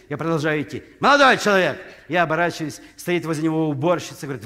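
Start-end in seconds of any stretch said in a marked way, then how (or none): 1.0-1.8 louder call after him; mock doorman shout. Doorman calling after a guest, louder call. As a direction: hail him from behind, louder. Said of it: "Швейцар кричит".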